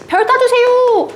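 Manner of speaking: put-on high, slow, whiny little child's plea; begging child. Teacher voicing the child begging mom for a star, high and whiny. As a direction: wheedle like a small child wanting a star. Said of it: "아이가 별 갖고 싶다고 쪼르는 거야".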